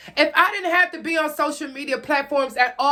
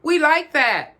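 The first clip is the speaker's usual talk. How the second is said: mocking strangers online; 3 semitones higher, slower than usual. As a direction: chirp it like gushing followers. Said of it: "a whole bunch of strangers to tell you".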